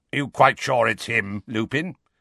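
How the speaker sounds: growling, wary, suspicious tone. Reading a story aloud, the narrator voices a character's question, growling. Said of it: "he growled".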